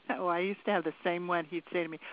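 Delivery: ordinary talk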